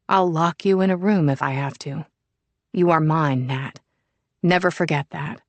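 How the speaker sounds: calm, even menace read in the narrator's voice; a stalker's eerily placid threat, lightly voiced; disturbing placidity. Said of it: "with an almost equally disturbing placidity".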